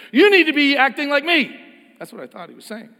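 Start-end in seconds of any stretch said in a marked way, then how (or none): 0.1-1.6 high, loud imitated lecture; hammed-up superior tone; mock condescension. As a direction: sneer it as he meant it. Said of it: "what he was really saying was".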